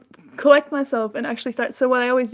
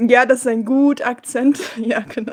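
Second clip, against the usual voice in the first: hammed-up, loud German at the start; mock German accent; 5 dB louder than usual. Streamer joking after cringing at the demo, mock German accent. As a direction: play up the German accent for a joke.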